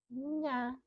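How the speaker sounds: nha said alone as one clear syllable; isolated syllable. Shown as a demonstration. Teacher isolating the syllable for pupils, clearly. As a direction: pull nha out of aranha and say it by itself. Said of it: "Percebam que quando eu digo aranha".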